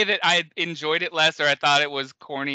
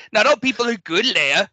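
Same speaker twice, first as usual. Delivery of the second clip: mock cranky Ben; 5 semitones higher, 5 dB louder than usual. Quoting cranky Ben again.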